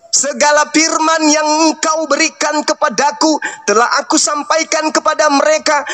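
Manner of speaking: measured scripture recitation, evenly intoned; slow, deliberate reading. Shown as a demonstration. Debater reading Jesus' words to opponent, slow deliberate recitation. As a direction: read it out slowly, phrase by phrase. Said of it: "Baca pelan-pelan".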